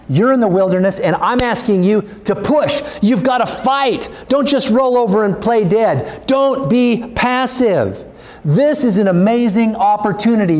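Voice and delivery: rising, pressing exhortation; urgent preaching. Real, not acted. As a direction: push them, voice climbing. Preacher urging congregation to push.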